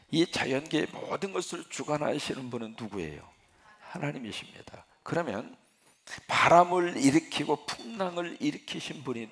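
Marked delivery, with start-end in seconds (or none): 3.8-4.9 hushed, breathy reply to his own question; soft whispered declaration; whispered answer. Shown as a demonstration.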